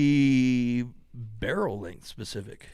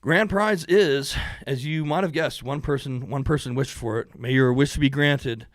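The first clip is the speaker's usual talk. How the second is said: booming prize announcer; 4 dB louder than usual. Acted. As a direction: announce it like a game show.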